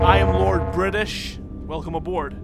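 Lord British greeting. Acted. Plays Lord British greeting crew.

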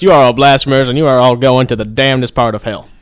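preacher in a put-on Southern accent, drifting Italian; a fire-and-brimstone Southern preacher, badly held; mock Southern accent. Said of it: "your Southern accent is terrible".

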